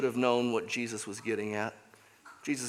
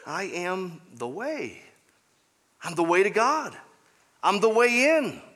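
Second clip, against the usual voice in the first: Jesus' claim; 4 semitones higher than usual. Retold or imitated. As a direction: proclaim it as Jesus speaking.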